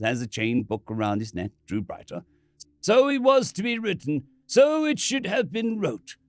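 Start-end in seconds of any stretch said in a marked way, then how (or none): 2.8-6.2 solemn priest. Acted.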